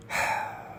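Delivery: long, voiceless sigh; heavy sigh. Real, not acted. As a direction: sigh it out softly. Sighs before saying it saddens him.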